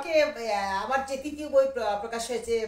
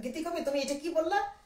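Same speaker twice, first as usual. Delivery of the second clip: higher-pitched indignant challenge; mock-confront him with raised pitch; retold anger; 5 semitones higher than usual. Confronting the lyricist over his word, retold anger. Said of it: "আমি একদিন heavy রাগ".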